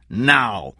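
shouting. A narrator's reading. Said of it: "Meyer shouted".

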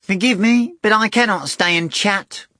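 high, loud polite cat; bow out like a gallant cat. A narrator's reading. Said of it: "the cat said from the mirror".

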